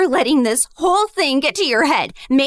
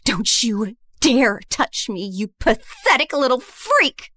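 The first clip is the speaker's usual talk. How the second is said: disgusted; 6 semitones lower than usual. Acted. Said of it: "looked at me with pure disgust".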